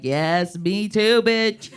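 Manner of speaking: rising, fired-up mock fan; excited agreement. Fans who feel it cheer the comic on, excited agreement. Audience relating to her jokes.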